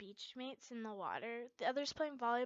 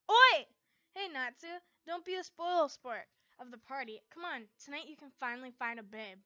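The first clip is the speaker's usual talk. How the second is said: cheerful calling out; 3 semitones higher, 11 dB louder than usual. A narrator's reading.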